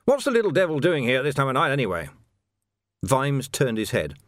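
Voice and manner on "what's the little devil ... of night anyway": rapid, raised grumble from an officer; officious captain demanding an explanation; irritated blustering captain. Acted. Captain complaining about the sweeper, irritated and hurried.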